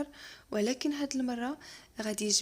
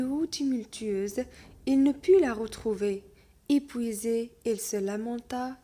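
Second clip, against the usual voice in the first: lecture de conte; much slower than usual. Acted. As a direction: lecture lente et posée d'un conte. Reading the tale aloud. (maître qui lit un conte lentement à sa classe)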